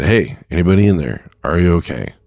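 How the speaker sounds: half-strength retold call-out; retold yell. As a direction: imitate calling across to someone. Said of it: "yell across these coils".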